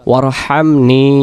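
ওয়ারহামনি with the final নি drawn out; long ni. Shown as a demonstration. Teacher shows the long নি ending of ওয়ারহামনি. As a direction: stretch the নি in ওয়ারহামনি. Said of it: "নি টান দেব".

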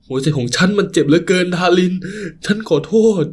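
a grown man breaking down, begging forgiveness; sobbing apology. Acted. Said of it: "แรงสะอื้น". (อ้อนวอนขอโทษทั้งสะอื้น เสียงสูงขึ้นเรื่อยๆ)

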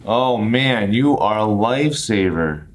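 emphatic, relieved thanks; hugely grateful. Shown as a demonstration. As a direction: thank them like they rescued you. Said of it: "As if the other person had saved you from dying".

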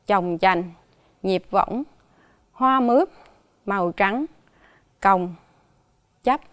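each hard word spoken alone and clearly; slow, careful listing. Shown as a demonstration. Teacher presenting the hard words to pupils, careful and deliberate. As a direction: set each word apart for the class. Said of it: "Các từ khó trong bài là".

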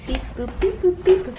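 playful robot beeps, rising high; beep boop. Acted. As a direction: chirp it out like a toy robot. Playful robot noises for the kid.

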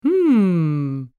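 long pondering hum; thinking hum. A narrator's reading. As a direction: hum it out doubtfully. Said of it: "thought Snoopy".

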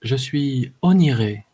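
slow, lightly chanted self-introduction; intoning. A narrator's reading. Hooded woman reveals herself by the fire, intoning. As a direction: intone it slowly, drawing out the name. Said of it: "psalmodia-t-elle".

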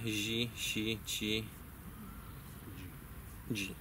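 "zi, si, ci, dzi" softened and quiet; soft versions. Shown as a demonstration. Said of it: "w wersji miękkiej". (miękkie "zi, si, ci, dzi", ciszej)

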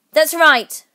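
high, loud approval; ringing queenly shout. A narrator's reading. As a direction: shout it back imperiously. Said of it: "shouted the Queen".

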